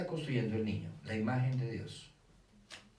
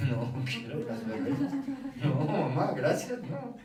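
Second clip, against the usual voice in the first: put-on child refusing; 8 semitones higher, 3 dB louder, slower than usual. Niño rechaza brazo de reina.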